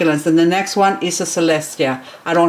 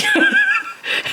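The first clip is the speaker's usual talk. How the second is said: high squeal of laughter. Real, not acted. Laughs at plant size.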